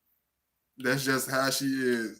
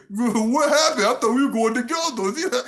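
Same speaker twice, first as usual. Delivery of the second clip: higher, louder whiny complaint; mock dismay at being left alone; mock hurt date; 8 semitones higher, 4 dB louder than usual. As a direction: play the ditched date, a bit louder. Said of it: "you be like".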